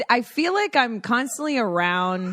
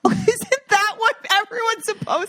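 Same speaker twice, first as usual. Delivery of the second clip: high, mock-baffled question; sarcastic; 12 semitones higher than usual. Answering praise of a grandpa, high sarcastic. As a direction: feign surprise at the praise. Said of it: "I'm like".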